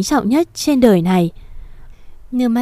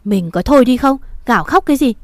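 husband yelling at his wailing wife; scolding shout; 4 semitones higher, faster than usual. Acted. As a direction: shut her up with a bark. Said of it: "lao tới quát vợ".

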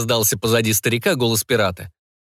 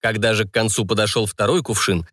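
plain reading voice

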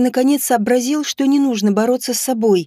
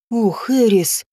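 shocked exhale; slower than usual. Acted. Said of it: "выдохнула я потрясённо".

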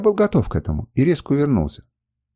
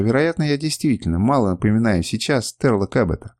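ordinary delivery, nothing marked

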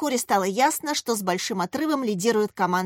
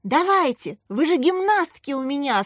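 high, urgent rallying cry; straining cheer; 6 semitones higher, 3 dB louder than usual. A narrator's reading. Katya urging on her gymnasts, straining cheer. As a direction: spur the girls on with all you have. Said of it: "срывала голос Катя".

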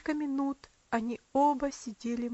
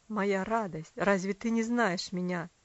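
trembling voice; 5 semitones lower, 3 dB louder than usual. A narrator's reading. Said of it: "спросил он дрожащим от волнения голосом".

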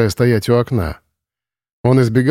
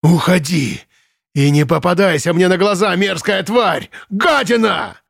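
higher, mounting furious yell; shouting; 7 semitones higher than usual. Acted. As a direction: chase her out with insults. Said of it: "кричал комендант". (комендант кричит, прогоняя её)

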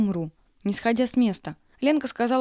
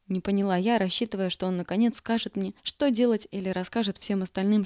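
ordinary delivery

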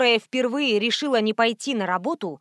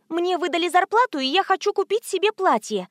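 daughter declaring; 8 semitones higher than usual. A narrator's reading. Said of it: "заявила Света".

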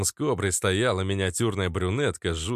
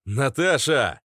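loud, higher searching call; urgent calling out; full-force shout; 6 semitones higher, 5 dB louder, slower than usual. A narrator's reading. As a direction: yell the name down a corridor. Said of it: "крикнул я, что было силы".

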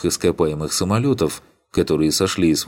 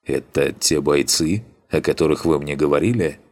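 slightly ironic. Acted. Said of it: "добавив в голос немного иронии".

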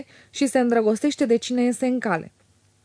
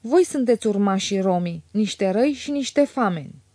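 mildly theatrical recitation; a touch of hollow stage oratory; cavernous declamation. A narrator's reading. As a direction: declaim it like an amateur tragedian. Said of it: "declamă cavernos".

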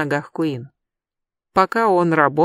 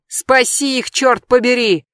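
high, loud urgent shout; 6 semitones higher, 4 dB louder than usual. Acted. Adam urges Jeb to save them, loud shout. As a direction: yell at him to save them. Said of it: "снова крикнул Адам".

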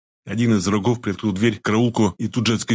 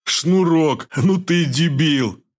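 louder, slow mocking jeer; loud insult; 6 semitones higher, much slower than usual. A narrator's reading. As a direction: bark it at the clumsy one. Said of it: "громко сказал упитанный враг".

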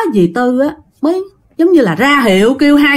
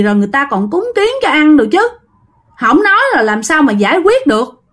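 higher-pitched exasperated scolding of her silent son; an annoyed mother nagging, pitched up; irritated scolding; 5 semitones higher than usual. Retold or imitated. Mother-in-law scolds her possessed son, exasperated and higher. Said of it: "hằn học nói vậy nè".

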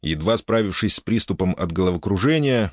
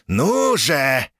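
taunting; 6 semitones higher than usual. Acted. Mantis taunts in battle.

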